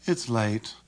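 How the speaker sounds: low-energy, bored remark; weary disinterest; boredom. Shown as a demonstration. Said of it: "With boredom".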